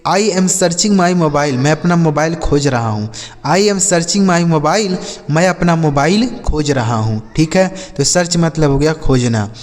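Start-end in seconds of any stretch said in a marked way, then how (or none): 0.1-1.5 each word said very slowly and clearly; slow clear English. Shown as a demonstration. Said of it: "जैसे". 3.5-5.0 each word said very slowly and clearly; slow clear English. Shown as a demonstration. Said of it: "जैसे".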